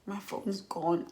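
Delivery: very soft, slow, crestfallen retelling; small, hushed voice of loss; re-enacted tearful dismay. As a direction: quietly act out being about to cry. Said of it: "I just started crying".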